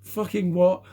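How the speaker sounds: mock-indignant outburst. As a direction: scoff at being treated like a child. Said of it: "And I was like".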